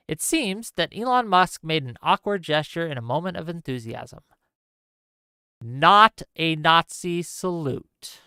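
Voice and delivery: measured official statement read; formal statement read aloud. Shown as a demonstration. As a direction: read it like a formal press release. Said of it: "I'll just read it to you".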